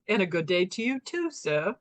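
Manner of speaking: lightly put-on English accent, polite and courtly. Wife imitating her sleep-talking husband, light English accent. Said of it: "he had an, like, a, an English accent".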